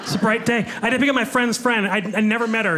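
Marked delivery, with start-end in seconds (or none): 0.0-0.6 put-on higher, good-mood Celtic accent; cheerful Scottish-Irish lilt. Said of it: "puts you in a good mood".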